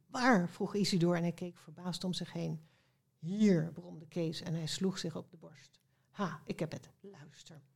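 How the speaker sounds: expressive storybook narration, characters lightly voiced; story reading aloud. A narrator's reading. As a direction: read a children's tale with acted dialogue. (expressief voorlezen)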